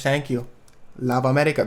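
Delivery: rough mock German accent; attempted German accent. A pop duo thanking the MTV host, in a makeshift German accent. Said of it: "That's the best German accent".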